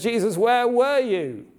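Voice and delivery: high, sharp angry question; man confronting Jesus, a high angry outburst; angry demand. Retold or imitated. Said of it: "the man is very angry".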